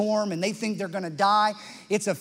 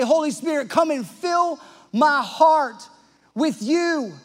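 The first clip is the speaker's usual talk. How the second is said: earnest prayer; 6 semitones higher, 5 dB louder than usual. Shown as a demonstration. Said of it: "You have to say".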